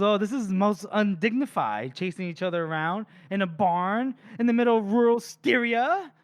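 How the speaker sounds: a touch of pompous disdain; lightly voiced fussy villain. Poisoner chased around a barn, mild haughty complaint. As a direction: sniff at the indignity. Morvir complaining while chasing.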